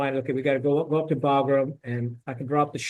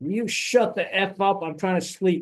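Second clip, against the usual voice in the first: mock restrained, high, stretched-out mild holler; 5 semitones higher than usual. Retelling sleeping guys yelling from the back of the room: imitating a yell. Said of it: "and they yell".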